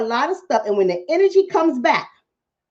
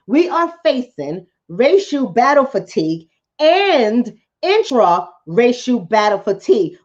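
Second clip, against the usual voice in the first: slowed, each word weighed; slower emphatic repeat; slower than usual. Shown as a demonstration. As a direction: repeat it slowly for the audience.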